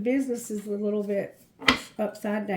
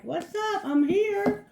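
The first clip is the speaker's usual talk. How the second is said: casual visitor; 9 semitones higher, slower than usual. Acted. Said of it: "and be like".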